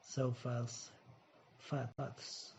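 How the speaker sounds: fast said with no T at the end; dropped T. Shown as a demonstration. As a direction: clip the T off fast, fast. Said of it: "chỉ đọc là fast". (fast đọc bỏ âm T cuối)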